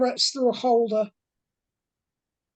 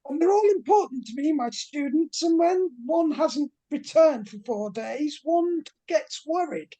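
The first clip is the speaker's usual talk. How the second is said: flamboyant British professor; 3 semitones higher than usual. Acted. Professor Fontaine pleads with the investigators, lightly posh and fussy. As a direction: play the flustered posh professor missing his student.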